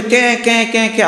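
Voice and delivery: high repeated parrot squawks; storyteller's lightly squawked bird cries; imitated bird squawk. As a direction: mimic a bird crying out in distress. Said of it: "আওয়াজ করছে পাখি".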